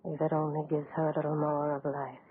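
barely audible, breath held as he works; hushed and tense. Acted. Doctor steeling himself over the dying woman, hushed. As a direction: murmur each step to steady trembling hands.

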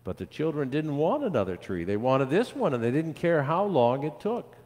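put-on lively, rhythmic listing for children; storybook read-aloud. A narrator's reading. Pastor reads of children tending a tree, lively storytelling. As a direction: read it as an unfolding tale.

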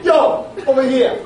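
clownish owl voice. Pretend. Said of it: "funny owl like a clown".

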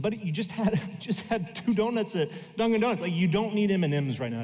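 gentle laughing refusal; amused scolding. Retold or imitated. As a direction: tease the boy about his donuts. Father refusing candy, amused.

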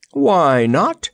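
high, projected cry; sudden high exclamation. A narrator's reading. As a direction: call back eagerly. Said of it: "cried the Wizard".

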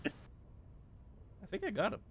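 whispered, slow and hushed. Real, not acted. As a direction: breathe it out quietly. Hushed after shot.

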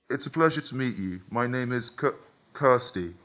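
programmed android stuttering on her name; glitching robot voice. Acted. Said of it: "She glitched on the last word".

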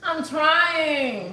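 high, drawn-out tearful whine; trying not to cry. Real, not acted. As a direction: protest through welling tears. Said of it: "I'm trying not to cry".

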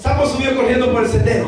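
high, loud, fast reading; lively model reading. Shown as a demonstration. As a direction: lead the class with energy. (lectura animada, aguda y rápida)

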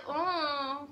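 soft, drawn-out "mm" of discomfort; creeped-out hum. Retold or imitated. Reacting to the creepy part, uneasy hum. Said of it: "what made me go like".

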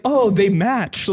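slow, dopey oh they match; drawn-out naive remark. Retold or imitated. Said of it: "I'm an idiot for just like".

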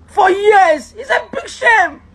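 real anguished outburst; crying shout. Real, not acted. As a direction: cry the words out.

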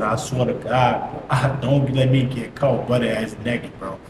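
low, slow plea; retold desperate prayer; praying for himself. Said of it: "I'm trying to pray for myself".

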